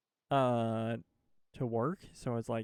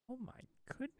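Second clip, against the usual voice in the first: squeaky voice; 12 semitones higher, 13 dB quieter, faster than usual. Pretend. Squeaky high exclamation.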